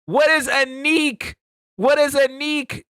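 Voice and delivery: shouted confusion at a text. Real, not acted. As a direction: demand an answer, disbelieving. Baffled by British slang text.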